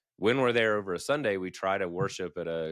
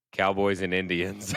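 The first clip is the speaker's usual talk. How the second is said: puzzled slow repeat; 4 dB louder than usual. Retold or imitated. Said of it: "pauses for a second and goes".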